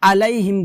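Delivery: "আলাইহিম" with plain a; no throat squeeze on "আলাইহিম"; ordinary glottal start to "আলাইহিম"; wrong hamza. Shown as a demonstration. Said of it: "হামজা উচ্চারণ করতেছি".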